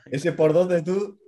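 slow, drawn-out impressed exclaim. Real, not acted. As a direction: savour the number, impressed. Impressed at lift numbers.

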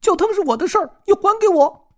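very high, loud squirrel squeal; shrieking squirrel. Acted. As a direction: screech it like a squirrel defending its ladle. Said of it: "松鼠尖叫".

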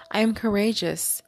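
lifted opening word, then measured phrases; affirmation recitation. Acted. Host answering the hurt with healing affirmations, deliberate recitation. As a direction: declare each quality separately, with pauses.

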